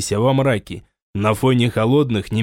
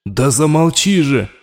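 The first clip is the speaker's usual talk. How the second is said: louder, fed-up cry; shout to shut up; 2 semitones higher, 4 dB louder than usual. Acted. Raul shouts at the voice to be silent, fed up. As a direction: snap it closed.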